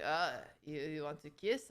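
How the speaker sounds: the creep's line again, low and quiet; sleazy guy asking. Retold or imitated. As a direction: drag it out low, pushy and dopey. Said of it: "the other guy's like".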